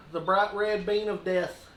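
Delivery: slow, ominous build-up; dramatic announcement. Real, not acted. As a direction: draw it out like doom.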